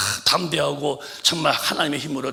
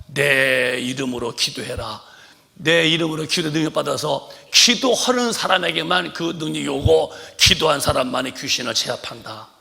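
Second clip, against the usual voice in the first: high, loud impassioned sermon; fervent preaching; 4 semitones higher, 10 dB louder than usual. Real, not acted. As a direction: cry out like a revival preacher. Preaching at full force. (목청 높인 열정적 설교)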